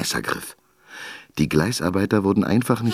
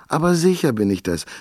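high, loud, impatient call; 10 semitones higher, 3 dB louder than usual. A narrator's reading. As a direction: call out, fed up with waiting. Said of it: "rief Turilda Josefina ungeduldig".

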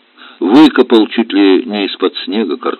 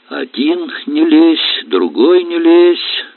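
high, slow, drawn-out outrage; mother-in-law offended at being silenced; indignant; 9 semitones higher, slower than usual. Acted. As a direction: mimic them bitterly. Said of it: "завозмущалась тёща".

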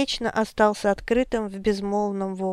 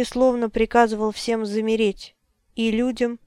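usual speaking voice

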